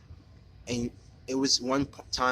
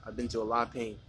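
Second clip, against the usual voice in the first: holding back tears; 5 dB quieter than usual. Real, not acted. Confessing his past pain, voice close to crying. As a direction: voice thinning to a near-breathless hush, fighting tears. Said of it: "I'm trying not to cry".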